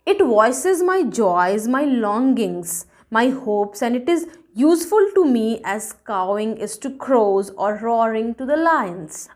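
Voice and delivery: slow, measured verse reading; deliberate poem reading; poem recitation. A narrator's reading. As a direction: recite each phrase slowly and distinctly. Reads the poem aloud.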